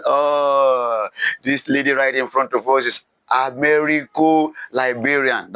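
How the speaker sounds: stretched-out reaction of finding someone out; rebels' realisation. Acted. Rebels realise who she is.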